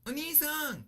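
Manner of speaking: high, calling Onii-san! after someone; old lady calling out. Retold or imitated. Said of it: "the old lady ran after me, screaming".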